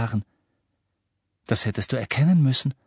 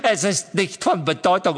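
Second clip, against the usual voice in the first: laughing dismissal; 5 semitones higher than usual. Acted. Laughing after cackle.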